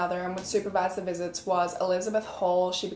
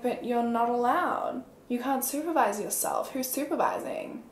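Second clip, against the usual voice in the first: higher, softer imitation of a fixated dispatcher; stuck dispatcher; 3 semitones higher, 3 dB quieter than usual. Dispatcher querying a social worker's supervision, imitated as stuck. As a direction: mimic a dispatcher stuck on one point, pitched up. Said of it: "he gets stuck on".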